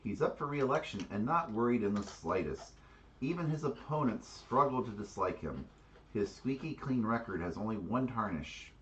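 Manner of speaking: deliberate storytelling read of a character card; card narration read aloud. Acted. Player reading a character card to the table, storytelling narration.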